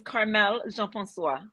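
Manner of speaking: Carmel Jean-Francois with French nasal vowels; soft French "zh" starting Jean in "Carmel Jean-Francois"; name pronunciation demo. Shown as a demonstration. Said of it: "Say my name again?".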